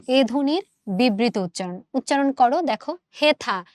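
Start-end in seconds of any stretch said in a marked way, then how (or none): 3.2-3.6 হেথা with a close "e", as in "hetha"; plain "e" vowel. Shown as a demonstration. Teacher testing the vowel for students, হেথা with a close "e". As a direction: keep a pure "e" in হেথা. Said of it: "এ উচ্চারিত হয়েছে".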